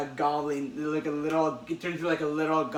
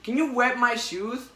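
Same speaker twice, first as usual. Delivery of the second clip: higher, louder petty crook voice; whiny robber; 6 semitones higher, 4 dB louder than usual. Retold or imitated. Robber begging Spider-Man about his stolen shoes, high and whiny. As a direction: wheedle like a small-time crook.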